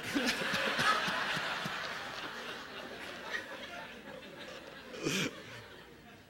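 breathy high laughter; real amused laugh after the joke. Real, not acted. Laughs at the question.

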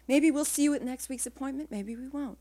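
a touch of sweetness in the doctor's voice; sweet tone. A narrator's reading. Doctor gently teasing his pregnant patient, lightly sweet. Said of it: "he said in a sweet tone".

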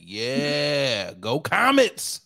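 loud, high, drawn-out team cheer; cheering fan. Acted. Boyfriend in the stands with a banner, hammed-up cheering. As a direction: play the over-the-top biggest fan.

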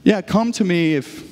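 hedged, conditional offer; grudging invitation. Retold or imitated. Pastor imitating what Jesus is not saying, grudging invitation. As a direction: trail off as if adding conditions. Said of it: "I'm not saying".

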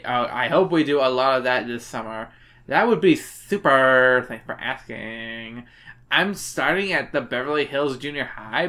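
put-on slurring drunk reading; drunk girl voice. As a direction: read it sloppy and slurred. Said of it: "you sound more like a drunk girl".

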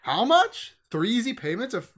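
loud, high, eager; excited infomercial customer. Pretend. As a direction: beg for the product.

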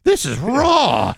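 high, drawn-out mock dismay; mock complaint. Sushi diner objecting to raw fish, mock complaint. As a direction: stretch it out like an appalled diner.

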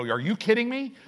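hammed-up disbelief, up high; incredulous. Pastor mimicking a shocked reader, mock outraged. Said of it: "would never read that statement and go".

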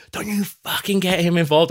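high-pitched imitation of an irate husband; imitated quarrelling, pitched well up; retold angry warning. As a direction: warn her off in a mock temper. Husband snapping at wife, retold quarrel.

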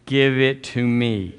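slow, deliberate lead for the congregation to repeat; slow call and response. Shown as a demonstration. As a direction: say it slowly so they follow. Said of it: "Say it with me".

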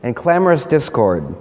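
high, lamenting plea to the Lord; prophet crying out. Retold or imitated. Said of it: "he's crying out".

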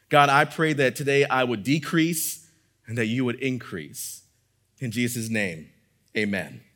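unhurried prayer with pauses between phrases. Real, not acted. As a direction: pray aloud in measured phrases, settling down to the amen. Leads the congregation in prayer.

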